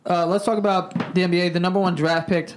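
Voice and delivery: talking while chewing seeds; words around a mouthful of seeds; mouth full. Real, not acted. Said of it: "I'm eating seeds right now".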